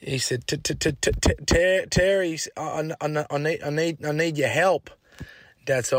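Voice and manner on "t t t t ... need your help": stammering voice, slightly higher; imitating a stutter. Tommy asking Dad for help, stammering. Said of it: "had a stutter".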